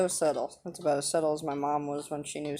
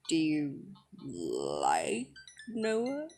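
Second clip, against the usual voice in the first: teasing question; much slower than usual. Acted. Dad to daughter about a boy, teasing insinuation.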